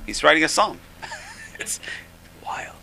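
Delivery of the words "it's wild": 1 laughing. Real, not acted. Laughing at the story.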